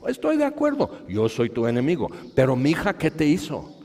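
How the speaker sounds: high, loud desperate appeal; anguished plea. Acted. Jairo a Jesús, ruego angustiado y fuerte. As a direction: cry out for the daughter.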